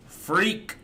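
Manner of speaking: mock high echo. Mocking echo of clip's word.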